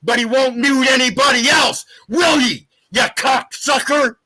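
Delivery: heated yelling at the host; angry. Real, not acted. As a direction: spit the insult out angrily.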